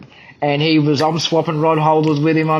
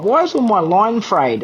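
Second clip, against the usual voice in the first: higher-pitched puzzled question; retold bafflement; 6 semitones higher than usual. Angler recalling finding his line frayed, retold bafflement. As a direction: act out mild disbelief with a swoop up in pitch.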